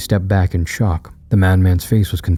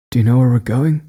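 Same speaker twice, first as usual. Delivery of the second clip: questioning Quincy; 5 semitones higher than usual. Acted. Quincy asks the madman.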